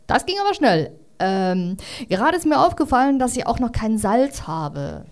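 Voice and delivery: a hint of a pushy new neighbour; kangaroo voice. Kangaroo asks for salt.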